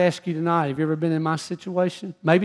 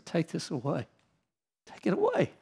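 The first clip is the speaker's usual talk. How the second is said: hushed prayer; 7 dB quieter than usual. Retold or imitated. Father praying softly over his sleeping daughter, hushed. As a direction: pray quietly over her bed. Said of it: "pray and say".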